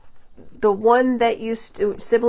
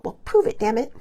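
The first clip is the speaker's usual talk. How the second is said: put-on childish dare. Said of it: "like a five-year-old".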